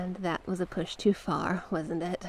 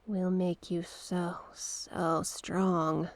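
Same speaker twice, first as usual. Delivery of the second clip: hypnotic calming. Acted. Seductive sea creature hypnotizing the princess, hushed whispering trance. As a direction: lull her into calm with a hushed, coaxing voice. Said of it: "going to have to help calm you".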